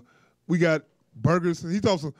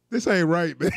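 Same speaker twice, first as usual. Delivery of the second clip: shouting. Real, not acted. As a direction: shout it in disbelief. Outraged protest.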